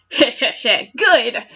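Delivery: a lightly voiced villain snicker; mock cackle. Meowth mocking the hero, a lightly voiced snicker. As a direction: chuckle like a small cartoon villain. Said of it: "she cackled".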